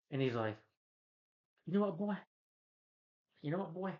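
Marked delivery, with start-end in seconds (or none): 1.7-3.9 higher-pitched put-on taunting voice; mock taunt. Reviewer mimicking the character who shows up, mock taunt. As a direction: imitate a cocky film character. Imitating character before a fight.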